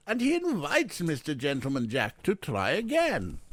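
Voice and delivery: put-on Eric Weiss, heavy accent. A narrator's reading. Guest daring the jewel thief to return, heavy accent. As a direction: declare it defiantly in a thick foreign accent. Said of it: "Oh, a heavy accent".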